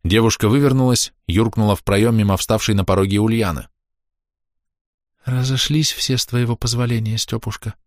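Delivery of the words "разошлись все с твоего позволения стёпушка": timid. A narrator's reading. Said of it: "пугливо проговорила жена".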